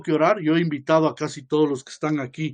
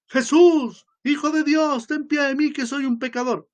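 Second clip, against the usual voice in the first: high, loud desperate cry for mercy; crying out louder; 9 semitones higher than usual. Retold or imitated. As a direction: call out to Jesus, pleading and louder. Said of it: "siguió gritando más fuerte".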